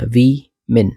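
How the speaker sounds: WOMEN split as "वी, men"; syllable by syllable. Shown as a demonstration. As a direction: break it in two, "वी" then "min". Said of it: "women पढ़ना". (WOMEN को तोड़कर "वी-मिन")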